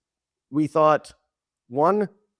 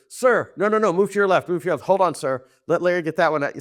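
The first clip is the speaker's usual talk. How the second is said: quick higher-pitched on-set instructions, imitated; director calling notes; 4 semitones higher than usual. Director to former president on set, re-enacted brisk direction. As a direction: re-enact interrupting politely with directions.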